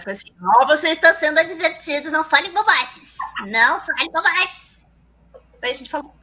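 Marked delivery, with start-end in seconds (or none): 0.6-4.8 higher, put-on scolding notice voice; mock official warning. Host acts out the channel's first warning from YouTube, mock official scolding. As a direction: read it out as a stern warning, slowing on the repeat.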